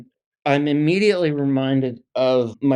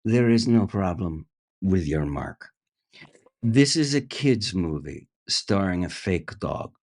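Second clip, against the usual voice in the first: lower, private director aside; confidential director; 4 semitones lower than usual. Retold or imitated. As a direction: take him aside and say it low. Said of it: "he goes".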